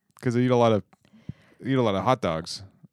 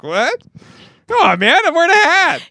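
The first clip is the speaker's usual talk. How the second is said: squeaky high outrage; high indignant protest; 8 dB louder than usual. Retold or imitated. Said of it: "I was like".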